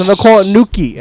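retold mocking daughter. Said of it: "she goes".

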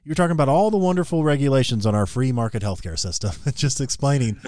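dry sarcastic praise. Real, not acted. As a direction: say it with mock admiration. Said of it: "I'm being sarcastic here".

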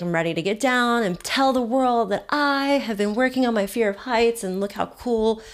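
showy, self-mocking brag; boastful. Zip liner planning her social media post, boastful. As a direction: announce it proudly to the world.

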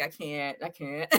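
soft, breathless I can't; losing it, barely voiced; helpless giggle. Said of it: "and you're like".

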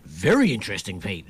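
dry mock praise; sarcastic. Real, not acted. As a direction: say it with heavy sarcasm. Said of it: "you really hear the sarcasm then".

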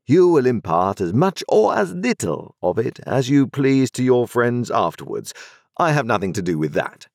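cool, businesslike lawyer laying down terms; a hint of a dry, formal lawyer; stern lawyer. Lawyer Jaggers speaking in story.

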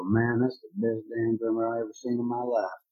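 put-on amateur Southern accent for a won-over concertgoer; attempted Southern accent. Converted fan from the cheap seats going home, attempted Southern accent. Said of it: "my attempt at a Southern accent".

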